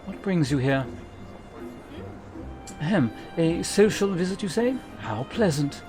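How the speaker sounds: a hint of a polite, smug host; courtly gentleman voice.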